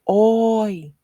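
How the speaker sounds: loud high Oi! called to a boat; calling out. Shown as a demonstration. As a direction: shout Oi! as if hailing a boat. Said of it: "as if you are calling out to the boat".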